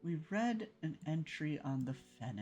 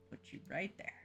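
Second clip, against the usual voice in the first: whispering; 5 semitones higher, 4 dB quieter, faster than usual. Real, not acted. Placing an item in the game.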